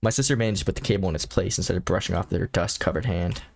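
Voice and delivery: low-pitched storybook reading; story narration. A narrator's reading. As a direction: narrate the game text evenly. Reads game text aloud.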